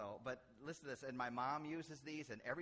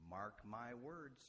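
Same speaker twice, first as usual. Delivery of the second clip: imitating father-in-law; much slower than usual. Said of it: "my father-in-law would say".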